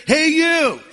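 high squawking parrot call. Acted. Parrot calls out.

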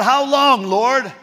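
half-acted exasperated prayer; mock angry cry. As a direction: imitate David's anger at God. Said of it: "He's mad at God".

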